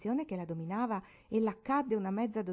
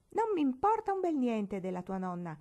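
loud, higher stubborn retort; foot-stamping defiance; 6 semitones higher, 4 dB louder than usual. A narrator's reading. Barbara defies Marigold over the cake, stamping. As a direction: stamp your foot as you say it. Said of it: "disse battendo i piedi".

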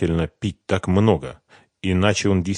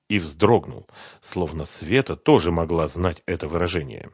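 ordinary delivery, nothing marked

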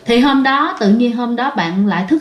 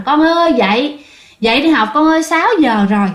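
everyday wake-up call; 4 semitones higher than usual. Retold or imitated. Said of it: "Giống như bình thường mẹ kêu rằng".

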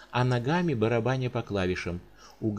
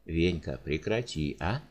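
plaintive; 4 semitones lower than usual. Acted. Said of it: "жалобно попросил Прокоп".

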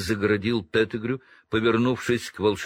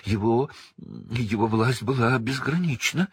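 snivelling; 4 semitones higher than usual. Acted. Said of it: "хлюпнул Петтигрю".

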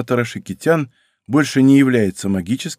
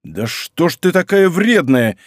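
voice slightly raised; 7 semitones higher, 3 dB louder, slower than usual. Acted. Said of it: "чуть повысил я голос".

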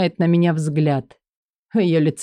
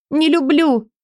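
Элли's voice; 9 semitones higher than usual. Acted. Элли, far, higher.

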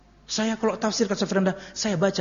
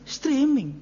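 playful answer; 7 semitones higher than usual. Retold or imitated. Acting out the answer.

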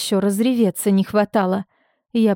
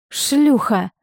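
scornful declaration; 3 semitones higher than usual. A narrator's reading. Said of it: "заявила я".

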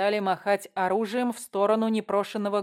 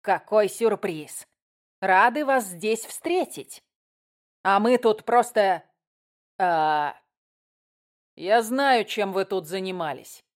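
louder, slow nervous red cap; flustered goblin; 5 dB louder than usual. Acted. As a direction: babble like a caught goblin.

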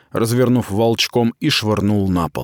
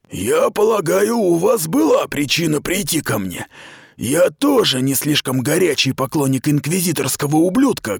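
higher, measured officer's voice; commander's voice; 8 semitones higher than usual. Acted. Aradai speaks privately to Mita, cool and measured. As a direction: confide coolly, keeping authority.

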